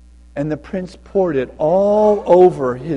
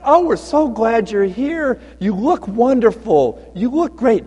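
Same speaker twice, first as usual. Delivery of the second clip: higher, effusive party greeting; gushing welcome; 5 semitones higher than usual. Acted. Guests greet the old man at the banquet, gushing. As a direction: gush over an honored guest.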